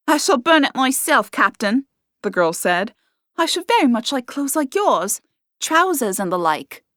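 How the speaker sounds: eager young servant girl, lightly voiced.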